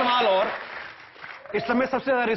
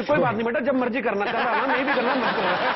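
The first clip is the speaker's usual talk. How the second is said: lightly voiced lenient teacher, higher pitch, laughing; joking mock-teacher reassurance, pitched up; indulgent teacher; 4 semitones higher than usual. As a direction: play a coaxing teacher through a chuckle. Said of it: "teacher यही कहती".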